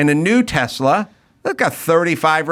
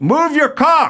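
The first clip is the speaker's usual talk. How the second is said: mock shrill, very high shouting; 11 semitones higher than usual. Retelling how a driver yelled from his window: imitating a man yelling. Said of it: "and he yells".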